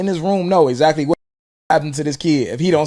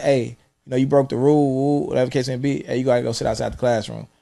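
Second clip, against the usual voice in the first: a calm, level teacher voice. Retold or imitated. A teacher calmly sending a kid outside, calm even voice. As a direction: tell the kid evenly what happens. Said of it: "if I calmly like".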